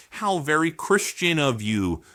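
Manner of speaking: dry sarcastic jab. Real, not acted. Mocking a congressman with dry sarcasm. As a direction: sneer it with mock praise. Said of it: "I'm being sarcastic".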